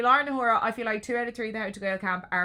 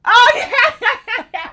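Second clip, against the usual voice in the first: laughing; 14 semitones higher, 13 dB louder than usual. Real, not acted. Laughing at co-host's acting.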